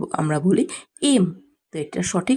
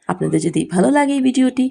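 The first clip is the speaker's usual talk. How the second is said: upbeat outro; faster than usual. Real, not acted. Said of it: "subscribe appeal".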